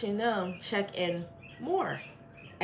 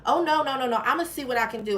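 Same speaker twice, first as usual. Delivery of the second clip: flustered clerk; 5 semitones higher, 4 dB louder, faster than usual. Retold or imitated. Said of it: "her whole attitude changed".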